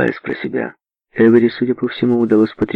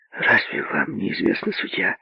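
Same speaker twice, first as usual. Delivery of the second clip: soft secret whisper; 4 semitones higher, 6 dB quieter than usual. Acted. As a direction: lean in and whisper. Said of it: "прошептала Генриетта".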